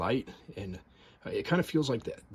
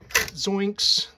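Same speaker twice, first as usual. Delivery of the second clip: surprised yelp; 10 semitones higher, 9 dB louder than usual. Real, not acted. Typebar pops up suddenly.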